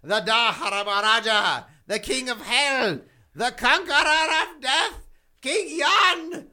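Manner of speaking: hammed-up demon king vow; grand curse. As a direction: roll out the titles like a villain.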